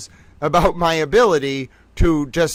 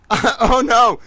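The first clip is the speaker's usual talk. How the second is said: surprised; 8 semitones higher, 6 dB louder than usual. Real, not acted. Button warning surprises her.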